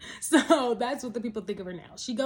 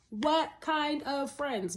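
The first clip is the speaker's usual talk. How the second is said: slow repeat; 4 semitones higher, much slower than usual. Real, not acted. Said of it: "riddle me this".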